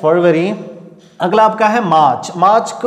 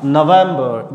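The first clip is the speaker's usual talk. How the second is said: नवंबर said slowly, "vem" raised; pitch up on stress; 2 semitones lower, much slower than usual. Shown as a demonstration. Teacher to class: नवंबर, slow, "vem" raised. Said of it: "यहाँ pitch अपनी high करनी पड़ेगी".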